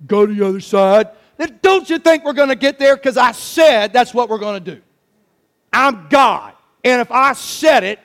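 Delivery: mildly acted stern scolding; firm, exasperated rebuke, punching key words; Jesus, mad. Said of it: "No, he was mad".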